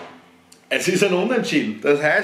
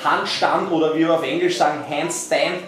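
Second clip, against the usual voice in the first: higher, upbeat presenter voice; mock tutorial host; 7 semitones higher than usual. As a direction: play a cheesy fitness host. Hosts a mock live tutorial.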